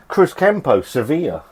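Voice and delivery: hammed-up sneer at the label's fake Spanish; mock Spanish. Vlogger mocking the beer's fake Spanish label, sarcastic. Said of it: "I'm taking the piss".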